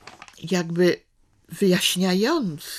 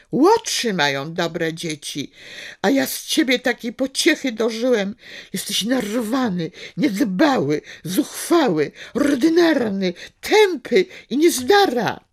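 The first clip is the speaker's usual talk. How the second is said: angry scolding; 4 semitones higher, 4 dB louder than usual. Acted. Father berating his son.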